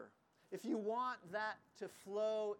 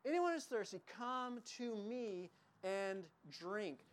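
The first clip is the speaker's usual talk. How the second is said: loud voice to the crowd; 2 semitones higher than usual. Acted. Jesus calling out to the festival crowd, loud and inviting. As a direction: call out the invitation to everyone. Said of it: "said in a loud voice to the crowd".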